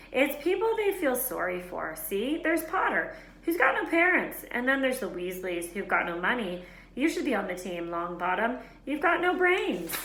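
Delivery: mock them with a sing-song sneer; sneering taunt. Malfoy jeers at Harry, the Weasleys and Neville: sneering taunt. Malfoy mocking Gryffindor players.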